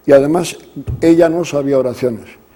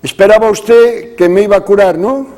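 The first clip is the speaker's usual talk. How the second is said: laughing question; 4 semitones higher, 4 dB louder than usual. Retold or imitated. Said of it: "riéndose".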